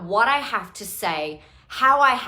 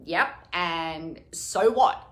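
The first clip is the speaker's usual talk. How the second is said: unapologetic shrug; 3 semitones lower, much slower than usual. Retold or imitated. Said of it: "And I'm like".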